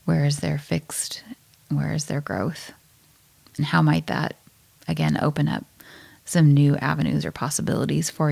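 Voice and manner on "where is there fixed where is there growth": whispering. Real, not acted. Reflective question, hushed.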